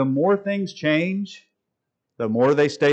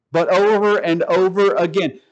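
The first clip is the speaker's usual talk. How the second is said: sarcastic; 3 semitones higher than usual. Acted. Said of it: "highly sarcastic here".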